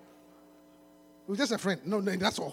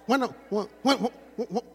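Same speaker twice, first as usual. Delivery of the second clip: low, soft, mock seductive lines; smooth-talking rapper; 12 semitones lower, 5 dB quieter than usual.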